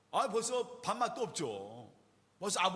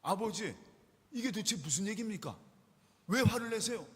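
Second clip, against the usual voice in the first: indignant protest; 2 semitones higher, 3 dB louder than usual. Retold or imitated. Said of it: "그냥 가만히 있지 않습니다".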